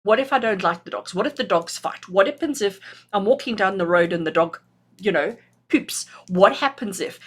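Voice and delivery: mock worried what-ifs. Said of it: "looks at a situation and goes".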